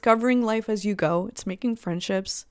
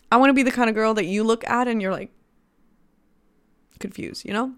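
caffeine rush; 2 semitones higher, faster than usual. Real, not acted. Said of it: "that caffeine is really kicking in today".

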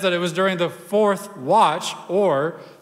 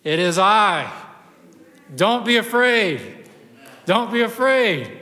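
calling back; 4 semitones higher than usual. Acted. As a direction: call out firmly over the waves. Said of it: "actually shouts back and says".

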